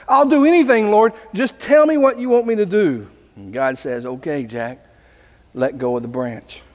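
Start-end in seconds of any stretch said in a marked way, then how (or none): 0.1-3.1 high-pitched acted desperation; eager pleading. Hanging man begs God for instructions. 4.0-6.6 low, soft voice of God; calm instruction. Retold or imitated. God calmly gives the instruction.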